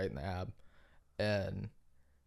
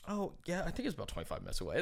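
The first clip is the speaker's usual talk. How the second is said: high eager start, then rattled off fast; dumb nice guy; 8 semitones higher, faster than usual. Retold or imitated. The dumb nice guy answering about the hospital, eager and fast. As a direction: blurt it out helpfully, fast. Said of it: "dumb guy in the group ... he's like".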